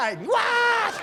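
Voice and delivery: high, hammed-up French accent; mock French accent. Singer hamming a French translator to the crowd, mock French accent. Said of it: "I'm just being French guy".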